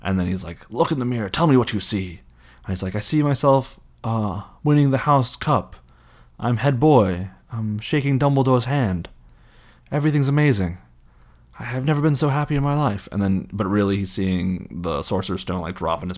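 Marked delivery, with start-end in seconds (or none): 0.7-2.2 raised, theatrical order; imitated commanding villain; villain's demand. Quirrell orders Harry. 3.0-13.1 high, gushing Harry imitation; hammed-up happy schoolboy; boy's overdone lie. Harry lying about the mirror.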